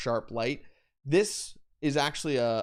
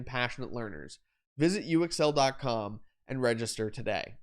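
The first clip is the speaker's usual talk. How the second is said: sponsor read. Real, not acted. Reads the sponsor message.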